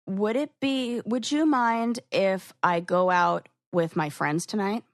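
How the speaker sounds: hesitant polite request; tentative asking. Shown as a demonstration. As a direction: ask as if seeking permission. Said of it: "let me give an example of".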